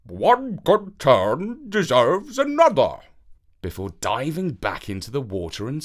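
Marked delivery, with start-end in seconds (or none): 0.0-3.0 slow, higher, louder sage call; a grateful carp repaying a favour; fish calling out. A narrator's reading. Golden carp calling to Avenant, slow and grand. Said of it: "and called out".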